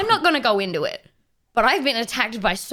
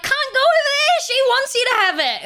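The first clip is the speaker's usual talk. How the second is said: higher hurried pleading voice; panicked plea; 13 semitones higher than usual. Retold or imitated. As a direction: blurt it out, higher and faster. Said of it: "I was like".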